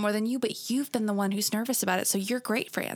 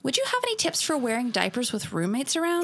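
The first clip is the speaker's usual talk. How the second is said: put-on valley girl. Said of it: "I'm gonna read it that way".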